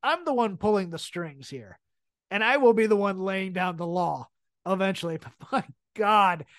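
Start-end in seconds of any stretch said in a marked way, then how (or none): 0.0-5.2 lightly imitated self-assured boss, measured; a hint of a commanding chief; Roman in control. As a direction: state it with understated authority. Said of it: "he also has the delivery of".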